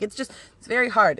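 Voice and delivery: ordinary talk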